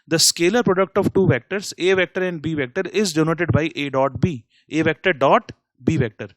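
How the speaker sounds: very slow definition read for copying; slow dictation. Shown as a demonstration. Teacher dictating the definition of the dot product, very slow. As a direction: spell out the definition word by word.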